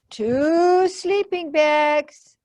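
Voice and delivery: Monster reading list. Acted. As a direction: read the list carefully. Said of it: "Monster reads list".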